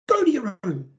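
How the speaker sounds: a hint of a stern parent ordering; acted stern command. Carer sending the child to their room, mildly stern. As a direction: send the child off firmly. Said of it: "I act this out".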